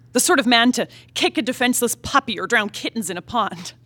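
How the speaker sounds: ordinary talk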